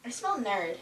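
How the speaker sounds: put-on low, sneering mean-girl line. Mean girl sneering at the nerd in the skit. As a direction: look down your nose and sneer it.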